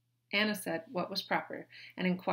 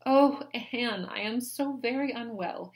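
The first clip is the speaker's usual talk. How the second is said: louder, higher plaintive sigh; high, loud plaintive lady; Mary moaning; 5 semitones higher, 5 dB louder, slower than usual. A narrator's reading. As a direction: lay the self-pity on.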